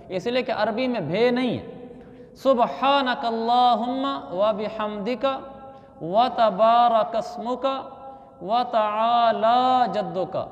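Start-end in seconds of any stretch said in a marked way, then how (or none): 2.3-10.5 slow, measured Arabic recitation with drawn long vowels; teaching recitation. Shown as a demonstration. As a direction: recite phrase by phrase for learners to copy. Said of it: "ये मैं अल्फाज आपको पढ़ के सुनाता हूँ". (ठहर-ठहर कर अरबी तिलावत)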